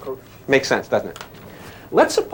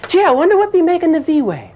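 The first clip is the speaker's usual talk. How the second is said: higher, folksy wide-eyed wondering; naive wondering; 12 semitones higher than usual. Retold or imitated. Teacher mimicking students wondering about the V wave, higher. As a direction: play a curious onlooker puzzling it out. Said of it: "And you've always said".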